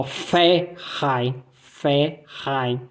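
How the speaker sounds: Verein said slowly as ferain, V as F; scene: teacher slowly models V sounding like F in Verein; German Verein with F. Shown as a demonstration. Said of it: "Som de F no V".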